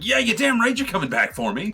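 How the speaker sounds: high, loud indignant holler; emphatic mock demand. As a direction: holler it after your departing teammate. Leonard voiced shouting after teammate.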